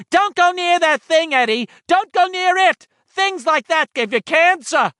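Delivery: high, loud, panicked mother's cry; frantic mother. Acted. Eddie's mother shrieking at him to stay away, frantic loud cry. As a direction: warn your son off in a panic. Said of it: "she was crying".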